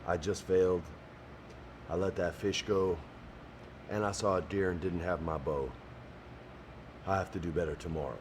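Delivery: soft, low, inward muttering; quiet self-blame. Retold or imitated. Contestant Britt quietly blaming himself after a bad day. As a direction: say it quietly to yourself, disappointed. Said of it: "he goes".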